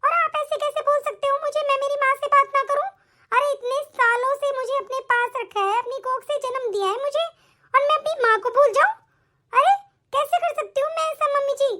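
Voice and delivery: indignant, pleading run of protest; talking back. Acted. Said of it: "देख ले इसकी जबान कैसे चल रही है, लपर लपर".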